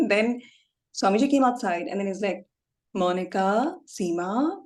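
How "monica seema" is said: mildly imitated name-call with rising tails. Swamiji calling the questioners over by name, calling out. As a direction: call each name, lifting the ending.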